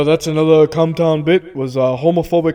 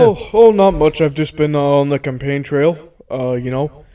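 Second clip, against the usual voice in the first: Bernie Sanders. Acted. Politician guest tells host about campaigning, light impression. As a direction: answer casually as the politician guest. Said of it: "Hey, Bernie, what's going on".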